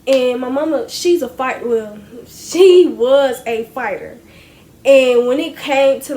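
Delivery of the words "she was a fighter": slow, stressed "was a fighter"; emphatic correction. Real, not acted. Daughter correcting how she describes her mama, stressing "was". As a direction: draw out "was" to correct yourself.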